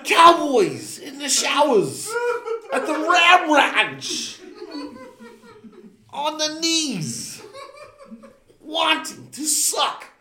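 high, giggling lyric read; trying to read straight but breaking up; laughing through the reading. Real, not acted. Reading silly lyrics to friends, cracking up laughing.

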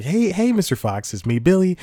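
Billy. Acted. Auditioning guy greets Mister Fox, lightly acted eager hello. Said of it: "so let me reenact".

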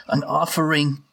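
fawning. Acted. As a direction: grovel to please the bullies. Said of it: "completely fawning and stumbling over myself".

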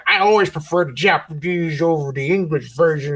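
put-on lightly drawled hick accent; redneck voice. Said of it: "that's a redneck voice".

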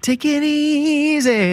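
raspy whisper, slow and high; creaky whisper. Acted. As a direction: rasp it out in a breathy whisper. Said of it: "raspy whisper voice".

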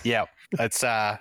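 talking with a tissue in his nose; nose plugged with tissue; tissue up one nostril. Real, not acted. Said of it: "I gotta jam a tissue in my nose".

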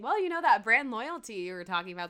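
dry, sarcastic quip; deadpan sarcasm. Retold or imitated. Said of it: "Stevie's sarcastically saying".

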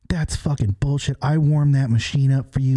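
hammed-up indignant complaint about the warmed-up machine; imitating an angry girl. Telling his friend about the pissed-off girl at the casino, mock angry outburst. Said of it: "That girl was pissed".

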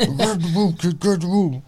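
high mock warning to the kid; mock scolding dad. Dad retelling warning his son, in a high mock voice. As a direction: playfully scold a grabby child. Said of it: "And I'm like".

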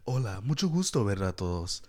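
lightly imitated grown-up kid greeting; kid talking like adult. Imitating a childhood friend greeting parents, lightly adult-like. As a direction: do a mild impression of a kid playing the polite adult. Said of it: "This is how he would talk".

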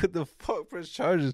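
high-pitched incredulous retort; re-enacted outraged comeback; indignant disbelief. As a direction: throw the question back, pitched high. Retold disbelief at officers' offer.

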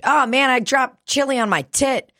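high-pitched mock dismay; retold exclamation. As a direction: exclaim it, voice jumping up.

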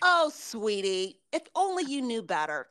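stretched-out condescending pity. Acted. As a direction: talk down to them with mock sympathy. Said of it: "that's condescending".

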